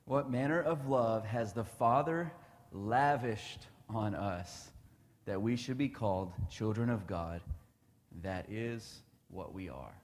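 slow reverent scripture reading. Shown as a demonstration. Rereading the verse to his listeners, slow and reverent. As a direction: read it again slowly, letting each phrase land.

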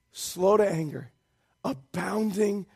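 normal talking voice

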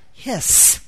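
"hiss" with a long trailing sss; onomatopoeic hiss. Shown as a demonstration. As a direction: stretch the final s of "hiss" so it hisses. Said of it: "The sound of the word is how you pronounce it".

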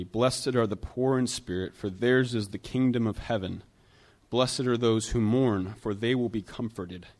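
measured, solemn reading; scripture reading. Real, not acted. Pastor reading Matthew five to the church, solemn. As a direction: read the verses with weight.

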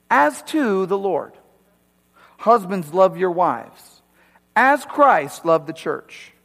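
key words slowed and leaned on; emphatic scripture reading. Shown as a demonstration. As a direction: read it so every command lands. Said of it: "So I'm gonna emphasize some".

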